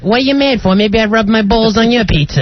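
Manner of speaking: high, needling heckle; real high-pitched mouthing off. Real, not acted. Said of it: "You're talking like a girl".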